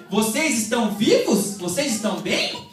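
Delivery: drawn-out teasing question with a laugh; slow, amused mock concern. Mocking the friend's real meaning, slow and laughing.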